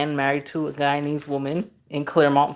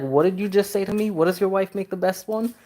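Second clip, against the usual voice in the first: higher, incredulous mock challenge; mock outrage; 5 semitones higher than usual. Asking the man about his wife's curry, mock-incredulous. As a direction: play up the disbelief.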